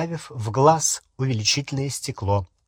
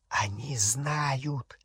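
very slow, hushed warning; urgent whisper; 9 dB quieter, much slower than usual. A narrator's reading. Griphook warning Harry in his ear, whispering. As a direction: murmur it softly, stretching each word. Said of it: "зашептал Крюкохват на ухо Гарри".

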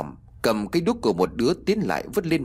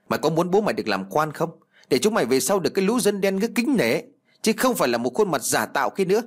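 put-on scheming old father; 6 semitones higher, faster than usual. Old Phú lectures son.

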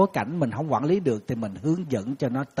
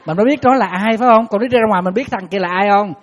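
emphatic; 5 semitones higher, 9 dB louder than usual. Real, not acted. Emphatic rhetorical question.

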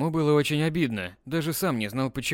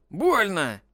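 louder yelp of pain; squeal; 6 semitones higher, 4 dB louder than usual. Acted. Dimka squealing after Vika hits him. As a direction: squeal it like a hurt boy. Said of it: "взвизгнул он".

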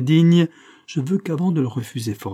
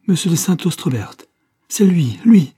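cri d'effroi; 6 semitones higher, 7 dB louder than usual. Acted. Marthe horrifiée par le prétendant.

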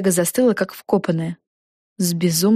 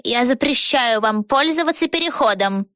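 mild grumble; 5 semitones higher than usual. A narrator's reading. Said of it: "проворчала вредная ведьма".

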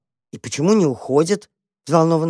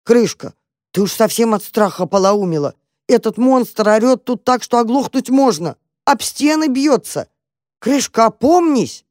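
exasperated mouse; 6 semitones higher, 4 dB louder than usual. Acted. Mouse scolds panicking cat.

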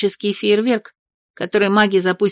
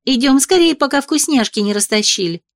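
eager hurry; 5 semitones higher than usual. Acted. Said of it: "Потянула к ближайшему столику".

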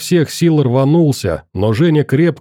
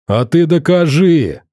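higher, challenging shout; raised-pitch, heated retort; defiant yell; 6 semitones higher, 3 dB louder than usual. A narrator's reading. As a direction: yell the challenge back at him. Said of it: "заорал Одноглазый".

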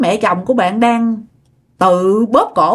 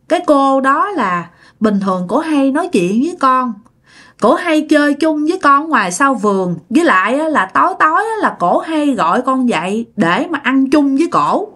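put-on higher, naive little-girl answer; innocent child; 4 semitones higher than usual. Daughter explaining her unseen playmate to mother, innocently. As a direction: lightly voice a guileless child. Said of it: "Nó trả lời đơn giản ngây ngô như vậy đó".

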